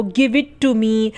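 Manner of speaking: each word slow and clear; slow example. Shown as a demonstration. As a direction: read it slowly for learners. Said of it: "जैसे कहते हैं ना". (धीरे-धीरे साफ़ उदाहरण)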